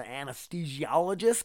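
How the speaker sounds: "anesthesiologist" drawn out syllable by syllable; "anesthesiologist" said oddly, in careful pieces; odd pronunciation. Real, not acted. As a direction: work your way slowly through "anesthesiologist". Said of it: "I don't know why I said it like that".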